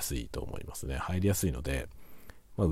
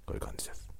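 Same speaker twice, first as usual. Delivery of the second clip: distant, one-sided mic sound; off to one side; 10 dB quieter, much faster than usual. Shown as a demonstration. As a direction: speak from off to the left of the mic. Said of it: "左の方に行くとこういう感じ".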